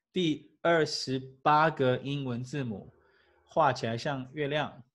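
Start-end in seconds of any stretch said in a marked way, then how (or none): none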